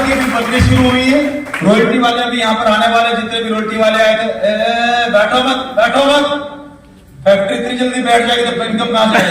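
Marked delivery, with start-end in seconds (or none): 4.4-9.3 urgent mock scolding call. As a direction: call out sharply to stop people sitting. Calls out to people sitting down. (ऊँची आवाज़ में टोकते हुए)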